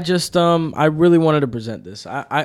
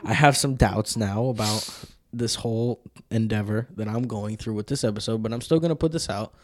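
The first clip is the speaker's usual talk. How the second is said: wrestling promo. Acted. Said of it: "I'm about to cut a promo right here".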